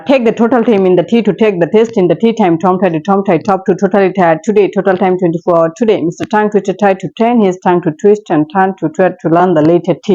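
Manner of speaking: a tongue twister read out as practice. Shown as a demonstration. Teacher reads a T tongue twister for students. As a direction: run through the T tongue twister steadily. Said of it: "যেমন".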